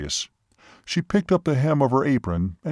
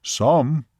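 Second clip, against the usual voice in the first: lightly voiced Seminole, one-word answer; imitated Seminole man; 3 semitones higher, 3 dB louder than usual. Seminole answers waitress about creatures remaining, terse. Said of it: "even imitating his voice and gestures".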